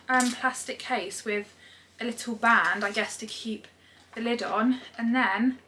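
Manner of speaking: ordinary talk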